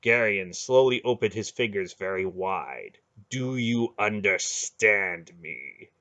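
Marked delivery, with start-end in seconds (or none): 3.3-5.9 slow, heavy demand; slow menacing demand. Acted. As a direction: drag each word out coldly. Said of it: "he demanded".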